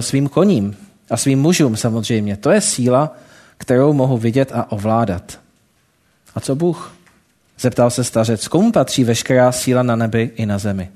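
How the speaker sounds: lightly voiced storytelling read to the congregation; story narration. A narrator's reading. Preacher telling the congregation a parable, storytelling voice. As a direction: tell the parable steadily, drawing listeners in.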